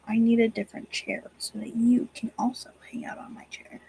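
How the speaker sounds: soft unvoiced whisper to the cat. Real, not acted. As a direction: whisper so as not to disturb him. Whispering to cat on her lap.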